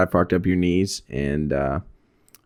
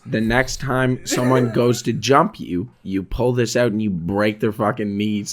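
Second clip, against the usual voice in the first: dead serious dad. Retold or imitated. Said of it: "He was dead serious".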